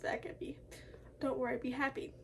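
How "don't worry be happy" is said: a badly faked Russian accent; a hammed-up bad Russian accent; horrible Russian accent. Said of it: "with a horrible Russian accent".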